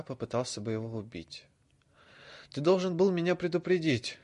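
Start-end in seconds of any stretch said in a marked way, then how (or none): 2.5-4.2 high and loud demand; raised voice. A narrator's reading. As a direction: push it louder. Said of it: "Голос Драко становился всё громче".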